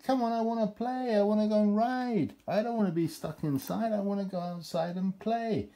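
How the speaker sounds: playful horse voice. Retold or imitated. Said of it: "I think it's like".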